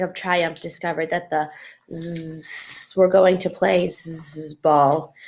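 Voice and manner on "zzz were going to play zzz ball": mental buzz. Acted. Ramona puzzling out a headline, slow with buzzes. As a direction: sound out slowly, buzzing the gaps. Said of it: "making a sort of mental buzz".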